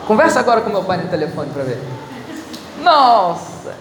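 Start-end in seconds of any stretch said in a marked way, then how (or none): 2.8-3.7 laughing, a bit slower. Real, not acted. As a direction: chuckle fondly through it. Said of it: "se derrete todo". (rindo, meio derretido)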